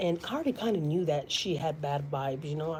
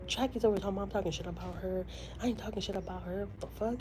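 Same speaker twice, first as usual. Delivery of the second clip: mocking rival; 3 semitones higher, 6 dB quieter than usual. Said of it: "she talks like that".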